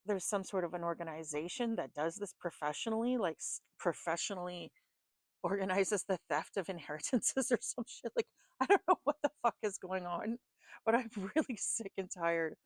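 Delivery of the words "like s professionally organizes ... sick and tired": laughing through frustrated words; giggling in real exasperation; words breaking into giddy laughs. Real, not acted. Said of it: "I'm getting giddy right now".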